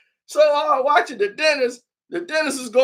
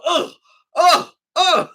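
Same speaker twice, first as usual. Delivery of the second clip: mock pained groans; 6 semitones higher, slower than usual. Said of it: "You can hear her go".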